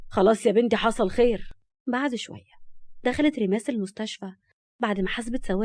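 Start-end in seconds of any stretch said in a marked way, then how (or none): 0.1-1.5 mildly reassuring driver; calming. A narrator's reading. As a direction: soothe her, with a touch of firmness. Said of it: "وهو بيحاول يهديها".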